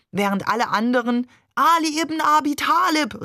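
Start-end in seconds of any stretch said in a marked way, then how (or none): 1.5-3.2 high, chanting acclamation; crowd's fervent cry. A narrator's reading. Pilgrims surging round the shrine, fervent calling. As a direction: cry it out as a devout crowd would.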